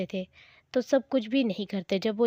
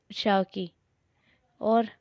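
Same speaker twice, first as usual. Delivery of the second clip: usual speaking voice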